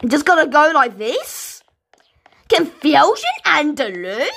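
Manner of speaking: whisper. Real, not acted. Whispering while puzzling in game.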